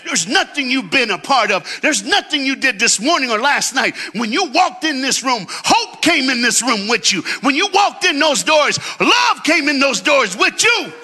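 preaching at full force. Acted. Preacher shouting hope to the congregation, full force. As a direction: lift the crowd with rising fervor.

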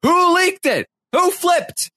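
very high squeaky panicked voice; frantic Pooch. Retold or imitated. Pooch squealing in panic over who leaked. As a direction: squeal it out like a paranoid houseguest. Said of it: "Pooch went around thinking".

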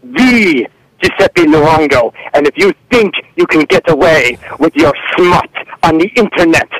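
angry mock Italian mogul; bossy prank-call villain voice; Giuseppe Luongo. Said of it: "and he's angry".

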